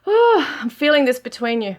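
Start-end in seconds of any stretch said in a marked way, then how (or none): 0.1-0.6 high, loud sighed "oh"; emotional sigh. Real, not acted. Reader moved by the card's message, emotional sigh. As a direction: let out an overcome, high-pitched sigh. Overcome with feeling mid-reading.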